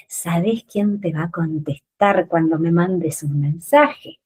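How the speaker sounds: mock-hurt victim reproach; playing the victim. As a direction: sulk it like the injured party. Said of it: "bien de víctima".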